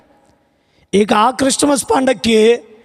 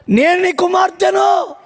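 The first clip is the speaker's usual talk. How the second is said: mock plea; 5 semitones higher, slower than usual. Wife repeats louder.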